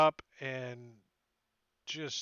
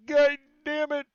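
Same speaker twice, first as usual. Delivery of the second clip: very loud, much higher swear; furious curse; 12 semitones higher, 13 dB louder than usual. Acted. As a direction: curse after getting smacked. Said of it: "He's like".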